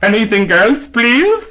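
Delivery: lightly voiced clerk asking politely; deli man asking. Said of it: "said to the customer".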